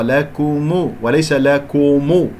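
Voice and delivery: لكم light versus heavy kaf; contrast. Shown as a demonstration. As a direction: show thin then heavy kaf in لكم. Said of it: "كو، خطأ".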